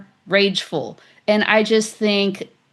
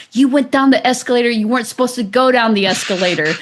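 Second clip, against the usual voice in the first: fast, slightly raised mock scolding; angry stranger; 4 semitones higher than usual. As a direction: imitate a stranger scolding her, hurried and a bit higher. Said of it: "He starts getting more and more angry".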